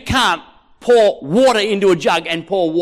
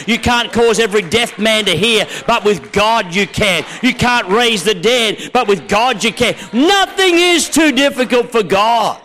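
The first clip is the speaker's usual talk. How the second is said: building preaching; 2 semitones higher, 3 dB louder than usual. Real, not acted. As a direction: drive each contrast home, building to a climax. Preacher builds a rhythmic climax.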